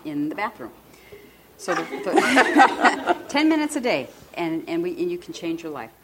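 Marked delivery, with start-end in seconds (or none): 1.6-4.1 slow, loud words through laughter; laughing. Real, not acted. Laughing at own bathroom joke.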